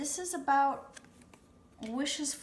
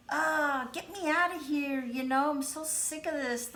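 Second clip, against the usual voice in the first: voicing someone fed up, slightly louder and higher; mock frustration; 4 semitones higher, 4 dB louder than usual. Reader voices the querent's partner wanting out, mildly exasperated. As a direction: act out wanting to escape, exasperated but light. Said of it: "just really being like".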